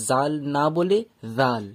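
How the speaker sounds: slow জাল with the tongue between the teeth; tongue-out zal. Shown as a demonstration. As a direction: contrast the two জাল, second with tongue out. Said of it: "জিভ বার করতে হয়". (জিভ বার করে জাল)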